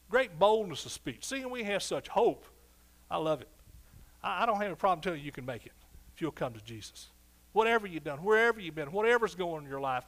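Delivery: high and loud, driving each line home; full-force preaching. Acted. Pastor rousing his congregation about God's sure word, fervent. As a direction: preach it hard to the crowd.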